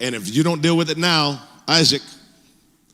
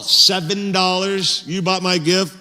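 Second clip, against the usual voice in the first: disbelief. Retold or imitated. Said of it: "and she's all".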